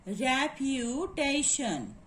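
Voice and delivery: REPUTATION drawn out in slow, separate syllables. Shown as a demonstration. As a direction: say "reputation" slowly, re-pu-ta-tion. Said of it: "we will find out the syllable here".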